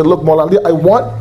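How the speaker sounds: pleading prayer. Acted.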